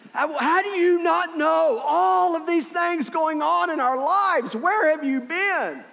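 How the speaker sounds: high, slow exasperated shout. Retold or imitated. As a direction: yell it at him in disbelief. Disciples exasperated at Jesus.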